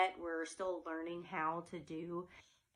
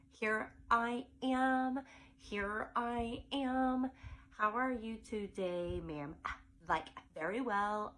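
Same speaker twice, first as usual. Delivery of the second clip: put-on teenager voice; slower than usual. Shown as a demonstration. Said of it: "she's going to have a teenager voice".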